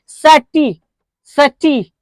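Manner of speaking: सर्टी set apart as its own firm chunk; stressed first part. Shown as a demonstration. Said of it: "यहाँ पर express जम रही है". (सर्टी को अलग करके ज़ोर से)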